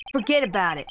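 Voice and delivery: put-on lightly done Italian-American mobster accent; a hint of Italian-American wiseguy. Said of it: "like, an American Italian accent?".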